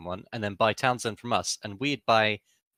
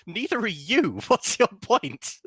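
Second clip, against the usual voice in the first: laughing tease; 10 semitones higher, slower than usual. Real, not acted. Teasing friend, laughing.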